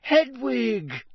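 high, loud cry of a name; shouted greeting, falling from a high pitch. A narrator's reading. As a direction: call out in sudden delight. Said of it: "he shouted".

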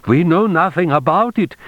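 high, anxious flunky's protest; anxious sputtering. A narrator's reading. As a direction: deny it anxiously, pitched well up. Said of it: "flunky was sputtering anxiously".

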